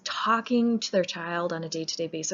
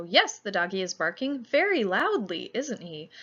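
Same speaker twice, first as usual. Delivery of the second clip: "very loudly" swooping up and down with a bit more enthusiasm; emphasis on VERY LOUDLY. Shown as a demonstration. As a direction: lean enthusiastically into the words "very loudly". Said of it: "a little bit more enthusiasm".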